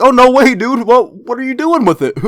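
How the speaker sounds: high, loud mock enthusiasm; sarcastic over-the-top wow; fake excitement. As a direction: play along with big fake interest. Faked enthusiasm to Thomas.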